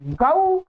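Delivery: गऊ said as ga-oo, a two-part au glide; गऊ with the old Sanskrit au; Sanskrit au sound. Shown as a demonstration. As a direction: sound गऊ as ga gliding to oo. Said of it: "और इसको क्या बोलेंगे?".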